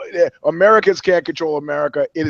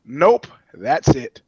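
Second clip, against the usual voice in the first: curt dismissal; 2 semitones lower, much slower than usual. Retold or imitated.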